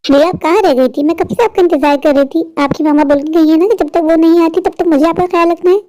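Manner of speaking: caring aunt. Acted. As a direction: scold her gently like a worried aunt.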